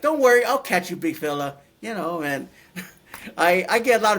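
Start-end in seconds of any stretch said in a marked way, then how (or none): 0.0-1.6 a reassuring medic, voiced higher and louder; 1 imitating the paramedic. Paramedic reassuring a big patient, light mimicry. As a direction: cheerfully promise to catch him. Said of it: "she was like".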